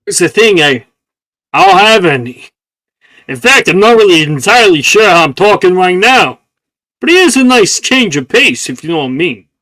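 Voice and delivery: raspy New York flower; smoker's voice. Acted. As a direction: gravel it out like an old smoker. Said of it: "You sound like a smoker".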